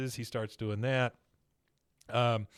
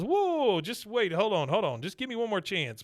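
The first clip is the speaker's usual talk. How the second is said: much higher, panicky begging that eases down; mock pleading; 6 semitones higher than usual. Bill begging Peggy for the sales job, mock pleading. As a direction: beg for one more chance, hammed up. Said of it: "He goes".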